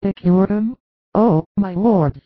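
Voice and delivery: Mary grasping at hope; hopeful. Acted. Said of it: "eyes shining with hope".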